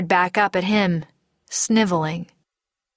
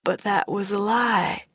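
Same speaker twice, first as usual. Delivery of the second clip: lost; 2 semitones higher than usual. Acted. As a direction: sound adrift, a touch of hurt. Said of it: "he sounded so damn lost".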